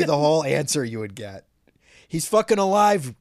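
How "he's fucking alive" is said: louder, higher hammed-up snapping; imitating an irritated director dismissing the fan; mock angry outburst. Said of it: "he'd be like".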